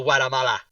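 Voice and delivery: newscaster hitting "Guatemala" with a non-English pronunciation; over-authentic pronunciation. Retold or imitated. Retelling a comic's newscaster bit, "Guatemala" pronounced over-authentically. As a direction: hit "Guatemala" in a try-hard native pronunciation. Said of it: "try to hit the words".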